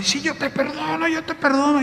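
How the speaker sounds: forgiving through tears; a high, weeping "yo te perdono"; tearful forgiving. Retold or imitated. Woman forgiving while weeping.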